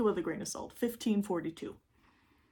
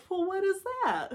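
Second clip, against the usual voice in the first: curious; 11 semitones higher, 3 dB louder than usual. Retold or imitated. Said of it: "I'm like".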